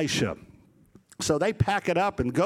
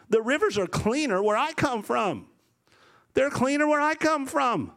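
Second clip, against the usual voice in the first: indignant, raised-pitch complaint; Naaman, angry; 5 semitones higher than usual. Retold or imitated. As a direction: protest like an insulted general. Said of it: "Naaman's angry".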